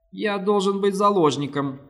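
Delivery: thin, high whistling alien voice; high and thin, with hissing sibilants. A narrator's reading. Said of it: "тоненьким, свистящим голосом".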